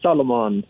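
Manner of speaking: "Solomon" said like the name, three syllables; exaggerated mispronunciation. Shown as a demonstration. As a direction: stretch salmon into "Solomon", SOL-uh-mon. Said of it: "I'm not going there like".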